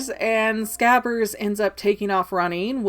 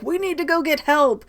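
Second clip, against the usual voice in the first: urgent Hermione; 7 semitones higher than usual. Retold or imitated. Hermione voiced in retelling.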